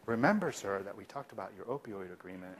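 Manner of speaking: very soft, almost whispered reminder. Shown as a demonstration. Provider calmly reminding a yelling patient, very soft. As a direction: keep your voice low under the yelling. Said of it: "if they're yelling and I'm going".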